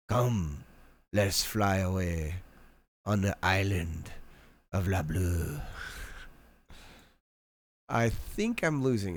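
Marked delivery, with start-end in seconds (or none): 0.1-5.6 a light fake French accent, slow; mock French accent. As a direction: invite like a dreamy cartoon Frenchman. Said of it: "I am French".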